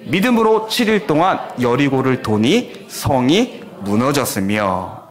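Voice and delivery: slow, measured Bible reading aloud; 성경 봉독하듯 천천히; scripture reading. Shown as a demonstration. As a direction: read it slowly, with the congregation. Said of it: "우리 함께 읽겠습니다".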